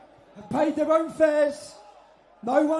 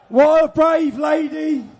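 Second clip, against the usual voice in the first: rousing call for applause; 6 dB louder than usual. Real, not acted. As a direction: whip up the crowd. Host rallies crowd for applause.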